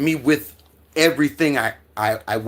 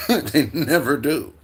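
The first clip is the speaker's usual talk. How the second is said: laughing; 3 semitones higher, slower than usual. Real, not acted.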